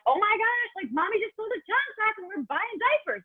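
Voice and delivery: put-on very high sing-song voice cooing to a baby; mommy gushing to her newborn in a high baby-talk voice. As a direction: coo it to your newborn as you change him.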